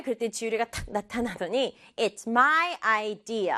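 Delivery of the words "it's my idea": my and idea both emphasized; slow line, my drawn out; stress on my. Shown as a demonstration. Girl appears to claim the idea, stressing my. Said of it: "강조하는 점 두 개".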